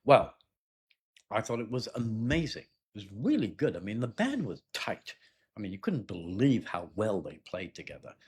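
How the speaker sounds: mildly excited concert fan; enthusiastic. Shown as a demonstration. Candidate telling the examiner they liked the concert, enthusiastic. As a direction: stress the praise words with lively ups and downs. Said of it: "if you liked it".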